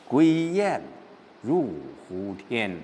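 drawn-out, lonely verse reading; 郁闷地朗诵. Shown as a demonstration. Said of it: "这还是在郁闷当中". (缓慢而郁闷，句尾轻轻落下)

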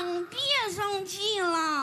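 slow, drawn-out wheedling; playful pleading, syllables stretched; coaxing whine. Acted. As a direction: cajole your sulking husband sweetly and slowly. Wife coaxing sulking husband.

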